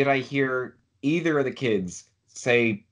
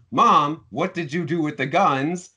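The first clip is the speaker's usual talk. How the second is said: concerned questioning; 3 semitones higher than usual. Retold or imitated. Son asking Mom about missing guns, mildly alarmed. Suggests how son should have reacted.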